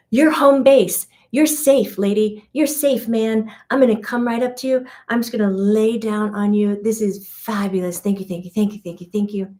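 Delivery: a light happy dog voice; voicing the dog. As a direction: play the grateful dog, gushing. Dog's thoughts voiced by speaker.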